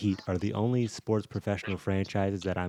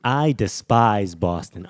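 emphatic hatred; 7 dB louder, slower than usual. Real, not acted. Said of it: "tell the people how you feel about Boston".

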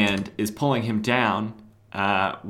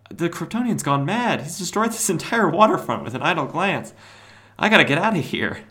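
high-pitched hammy alarm; villain in a cartoonish fluster; mock panic; 7 semitones higher, 4 dB louder than usual. Cobra fleeing a waterfront set on fire, mock panicked.

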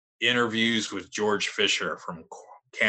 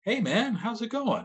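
much higher, bright jovial hello; jovial rock singer; 13 semitones higher than usual. Retold or imitated. Frontman greeting a stranger in the studio, jovial and high. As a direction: greet him like an old buddy. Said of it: "he's being all jovial".

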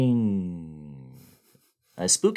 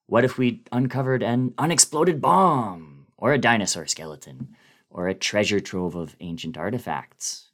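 measured, grave first-person story narration; spooky dramatic reading; faster than usual. A narrator's reading. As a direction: read it like a ghost story told late at night.

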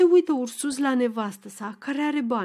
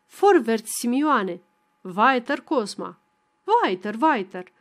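military command. Acted. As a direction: order everyone to drink like a drill sergeant. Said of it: "comandă militărește tuturor să bea".

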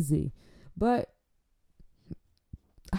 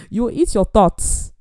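loud hammed-up decree; mock stern sentence; 3 semitones higher, 5 dB louder than usual. Host punishing guest for bad grace, mock-stern decree. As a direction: pronounce the punishment with playful severity.

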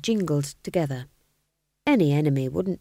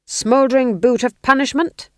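higher, louder hopeful guess; king's eager guess; 7 semitones higher, 8 dB louder than usual. A narrator's reading. Ghost king guessing another torture, high and loud. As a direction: pitch the name hopefully. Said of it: "said the king".

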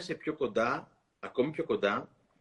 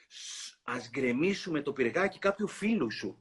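snake hiss; 3 dB quieter, slower than usual. Acted. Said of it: "είπε το φίδι".

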